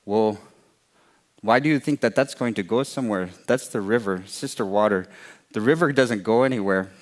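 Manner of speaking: plain reading voice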